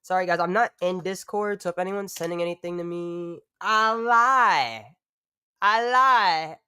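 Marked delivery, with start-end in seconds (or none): 3.6-6.6 louder, higher mock confession; playful confession. Real, not acted. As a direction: own up with a playful yelp. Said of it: "I'm in Discord on my phone".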